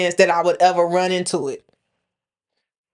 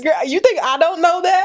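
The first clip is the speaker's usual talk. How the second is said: laughing; 10 semitones higher than usual. Real, not acted. Friends laughing about kangaroos.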